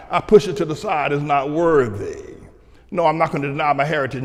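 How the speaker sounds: ordinary delivery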